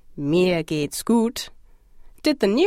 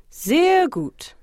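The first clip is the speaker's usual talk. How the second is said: higher-pitched congratulation; congratulatory; 8 semitones higher than usual. Shown as a demonstration. Teacher showing how to congratulate someone, congratulatory and higher. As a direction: praise a job well done, pitched up. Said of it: "congratulate someone for a job well done".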